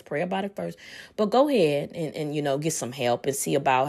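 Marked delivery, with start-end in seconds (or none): 0.0-0.8 soft repeat. Shown as a demonstration. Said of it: "Yes, yes, yes".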